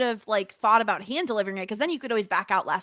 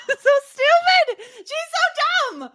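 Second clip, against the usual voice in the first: higher, louder disbelieving rant; exasperated outburst; 5 dB louder, slower than usual. Real, not acted. Cohost ranting about Felicity, high exasperated outburst. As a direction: vent at the character, half laughing.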